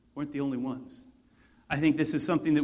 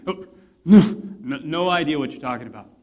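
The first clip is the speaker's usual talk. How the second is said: panicked denial; 2 semitones lower, 8 dB louder than usual. Retold or imitated.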